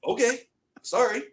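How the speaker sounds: small, high quoted voice; high-pitched mock contrition; retold meek apology. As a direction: back down sheepishly, as in the story. Retold cowed reply to coach.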